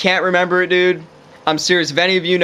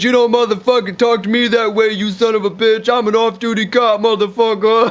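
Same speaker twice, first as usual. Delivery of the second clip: higher, hammed-up tirade in a put-on voice; mock angry cop; 4 semitones higher than usual. Off-duty cop raising his fist at the driver, mock furious. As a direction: imitate an off-duty cop blowing up. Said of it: "raises his fist at him".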